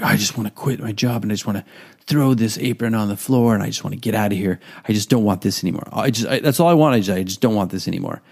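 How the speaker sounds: quick, exasperated rant about quitting, mildly acted; fed-up whining. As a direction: vent like a worn-out waiter who wants to throw the apron down. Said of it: "every day I was like".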